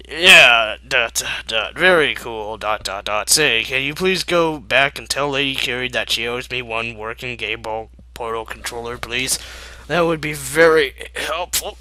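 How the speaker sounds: loud deadpan sarcasm; sarcastic. Acted. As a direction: drip with sarcasm. Sarcastic unimpressed mech.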